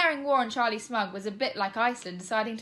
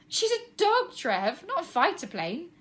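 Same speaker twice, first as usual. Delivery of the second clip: spluttering; 9 semitones higher, 5 dB louder, slower than usual. Acted. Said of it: "Tina began to splutter".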